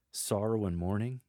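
rising question on "mourning". Shown as a demonstration. Lector asking the congregation, "mourning" rising as a question. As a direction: ask "Sorrow and mourning" with a lift at the end. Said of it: "take a sentence and convert it to a question".

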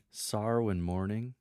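light, rising query on "mourning"; lighthearted question. Shown as a demonstration. Lector trying another option, lighthearted question. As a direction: ask it as the setup of a joke. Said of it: "this is more lighthearted".

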